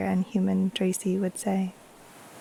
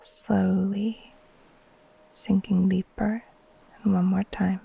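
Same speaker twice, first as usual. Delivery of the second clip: guided meditation. Acted. Teacher guiding listeners to settle in and breathe, calm meditation voice. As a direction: ease them gently into rest, leaving space between phrases.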